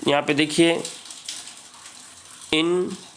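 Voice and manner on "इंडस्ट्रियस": इंडस्ट्रियस in three isolated pieces with very long pauses; syllable by syllable. Shown as a demonstration. Teacher counting syllables for students, इंडस्ट्रियस pulled far apart. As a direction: break इंडस्ट्रियस into इं, डस, ट्रियस. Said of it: "इसमें भी तीन syllable है".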